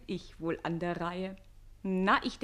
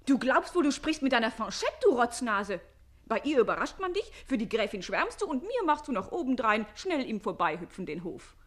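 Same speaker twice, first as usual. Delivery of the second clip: higher, sharp telling off; scolding; 4 semitones higher than usual. Acted. Susanne scolding the page, sharp telling off. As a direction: scold the cheeky boy.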